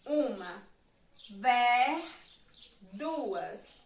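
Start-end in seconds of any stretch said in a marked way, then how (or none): 1.3-2.0 "Ver" drawn out loud as one syllable; isolated, stretched "Ver"; syllable marking. Shown as a demonstration. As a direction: hold "Ver" on its own, loudly. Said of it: "eu vou marcar a sílaba".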